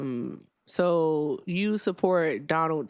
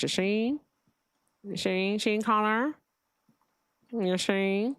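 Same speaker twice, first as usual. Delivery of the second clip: put-on old timey mob voice; 3 semitones higher, slower than usual. Shown as a demonstration. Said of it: "sounds like a bad Peter Griffin voice".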